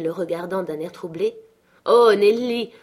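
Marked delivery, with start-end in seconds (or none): 1.8-2.7 louder, higher, brisk annoyance; sharp exclamation. A narrator's reading. Girl scolds maid combing her hair, sharply. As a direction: cry out in sudden irritation. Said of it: "ajouta-t-elle vivement".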